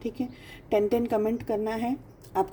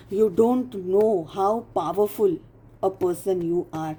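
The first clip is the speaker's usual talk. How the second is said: very slow emphasis; much slower than usual. Real, not acted. Emphatic address to viewer.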